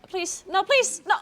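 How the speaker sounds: pleading no, voice jumping high; desperate begging as the wipe hits; anguished denial. Real, not acted. Boss kill fails, pleading.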